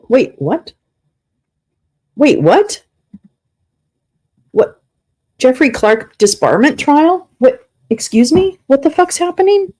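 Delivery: loud, high, incredulous questions; real shock. Real, not acted. Streamer just discovering a disbarment trial, shocked and incredulous. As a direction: blurt it out in stunned disbelief, pitch jumping.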